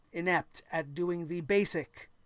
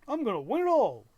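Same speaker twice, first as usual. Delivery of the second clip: mocking boast; 3 semitones higher, 4 dB louder than usual. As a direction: ham up the hollow promise to win it all. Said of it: "Can't have everybody say".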